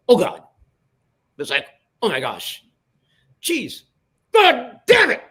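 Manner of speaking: imitating a boss aghast, pitch jumping high; escalating retold groans to a high, loud curse; mock exasperated outburst. Boss reacting as the spot plays, mock exasperated.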